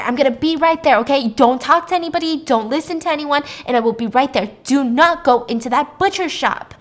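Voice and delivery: forceful, alarmed parent giving orders; urgent commands. Retold or imitated. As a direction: drill each instruction in like lives depend on it. Father urgently ordering son to safety.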